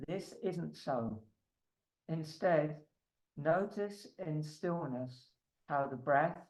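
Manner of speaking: measured reading with spacious pauses; unhurried, even recital of a meditation text; meditative reading. Acted. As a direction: read a contemplative passage aloud, pausing between phrases. Reads a meditation text aloud.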